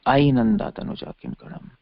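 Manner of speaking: high, intense cry of distress; anguished cry. Acted. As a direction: cry it out in longing. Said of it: "That's, that's intensity".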